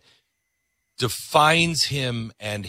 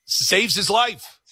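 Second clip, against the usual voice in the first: slow dramatic reveal; 9 semitones higher, much slower than usual. Acted.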